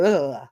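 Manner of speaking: mock shudder after a shot; exaggerated grossed-out noise; imitated disgusted "ugh". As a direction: let out a comic retching groan. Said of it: "that thing where you go".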